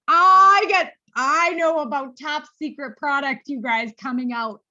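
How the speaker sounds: can't contain the secret; giddy excitement. Real, not acted. To her consultants, spilling a product secret, giddy and squealing.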